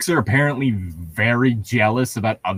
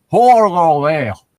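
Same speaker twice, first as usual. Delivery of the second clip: mocking repeat; 4 semitones higher, 7 dB louder than usual. Shown as a demonstration.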